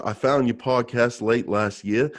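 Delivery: put-on reading April's letter in a mild Australian accent; female Australian impression. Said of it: "a female Australian impression".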